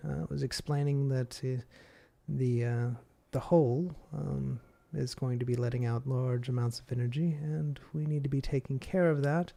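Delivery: a hint of a powerful demon; booming Demon Lord. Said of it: "the Demon Lord voice".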